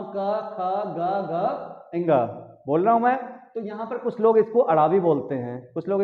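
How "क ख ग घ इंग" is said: each letter drawn out slowly; slow teacher demo of ख, ग, घ, इंग. Shown as a demonstration. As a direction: sound out every letter slowly for the class. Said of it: "यहां पर मैं अभी बोल रहा हूं".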